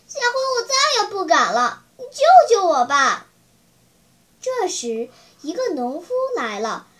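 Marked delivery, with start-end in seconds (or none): 0.1-3.3 crying out. Acted. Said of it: "匹诺曹大哭大叫".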